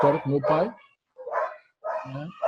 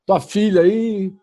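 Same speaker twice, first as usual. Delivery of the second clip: half angry; 3 semitones higher, 5 dB louder, slower than usual. Retold or imitated. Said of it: "meio já meio zangado".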